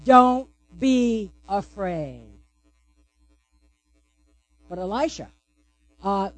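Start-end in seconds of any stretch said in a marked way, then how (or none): 0.0-2.3 slow, steady, reassuring; calm reassurance. Acted. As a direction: say it slowly to calm a scared friend. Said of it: "The words are this".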